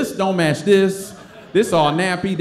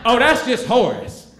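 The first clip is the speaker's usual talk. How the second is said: a hint of dismissive Tracy. Tracy unmasks him.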